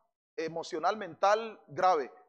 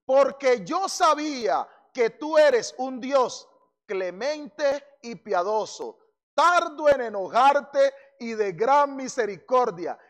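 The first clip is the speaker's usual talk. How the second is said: slow, loud complaint to God; mild angry reproach, dragged out; resentful prophet complaining slowly; angry prayer; 5 dB louder, slower than usual. Acted. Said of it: "se enojó y oró a Jehová".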